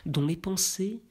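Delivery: measured, even-pitched verse reading; poem recitation. Acted. Reader recites Baudelaire's Élévation before commenting, solemn poetry recitation.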